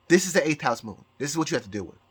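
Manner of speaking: ordinary talk, nothing marked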